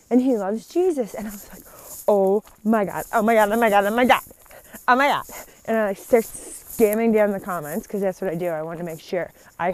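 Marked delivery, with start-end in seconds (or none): 2.1-5.2 excited squeal. Retold or imitated. Giddy reaction to him loving Jesus.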